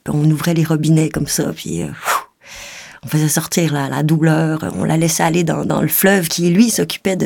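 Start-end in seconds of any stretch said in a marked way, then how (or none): 1.9-2.2 low puff of breath, pfff; blown puff noise. Retold or imitated. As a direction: imitate something whooshing away. Mimes pain being washed away. (souffle imité, pfff)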